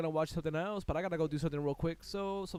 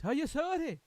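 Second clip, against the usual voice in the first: higher and loud, falling on sorry; mock accusing shout; 9 semitones higher, 5 dB louder than usual. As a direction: hammer the accusation down. Repeats the demand.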